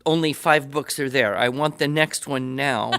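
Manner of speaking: hammed-up grumble over too few books; mock angry. Real, not acted. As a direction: complain with mock outrage that the series ran out. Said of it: "I'm angry that".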